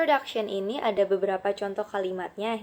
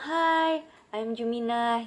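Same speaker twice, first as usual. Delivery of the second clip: voicing speaker A; 2 semitones higher, 3 dB louder, much slower than usual. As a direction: play A greeting brightly. Speaker A greets. (si A menyapa dengan ceria)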